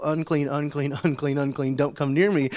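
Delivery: mock yell to keep people away; retold warning yell. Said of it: "able to not yell".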